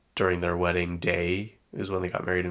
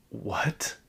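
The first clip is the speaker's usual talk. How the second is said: disbelieving; 3 semitones higher than usual. Retold or imitated. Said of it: "I'm like".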